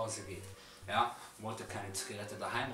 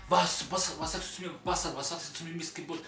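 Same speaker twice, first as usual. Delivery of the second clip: heated retold challenge, higher at first; aggressive confrontation; 4 semitones higher, 5 dB louder than usual. Attacker standing over the storyteller on the ground, retold aggressive challenge. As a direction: bear down on him, repeating the demand.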